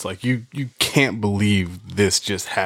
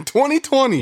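much higher, laughing exclamation; 4 dB louder than usual. Real, not acted. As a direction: crack up while saying it again. Laughing repeat.

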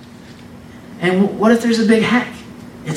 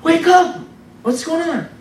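mock alarm; 7 semitones higher than usual. Panicked sleeper imitated.

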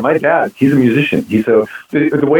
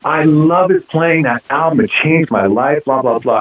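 imitated gushing musician; 6 semitones higher than usual. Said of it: "he's going on and on".

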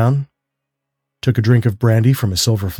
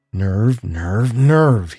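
panted; much slower than usual. A narrator's reading. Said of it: "he panted as he dashed along".

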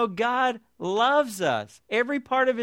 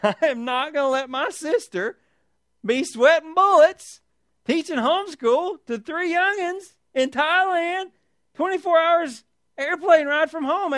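higher and louder, passionate preaching burst; fired up; 6 semitones higher, 4 dB louder than usual. Real, not acted. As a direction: pour it out for your sister, slowed and rising. Pastor fired up about sister.

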